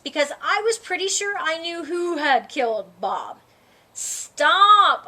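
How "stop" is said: urgent call to stop; cry out. Acted. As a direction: blurt it out to halt everyone. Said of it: "I cried".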